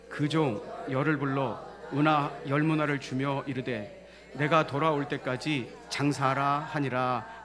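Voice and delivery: slow, measured Bible reading; scripture reading. Acted. Preacher leads congregation in the parable verse, slow reading. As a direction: read deliberately for a group to follow.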